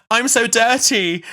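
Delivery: mock breathless purr; hammed-up sultry. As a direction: drag it out like a hammed-up porn line. Rose playing along with the client.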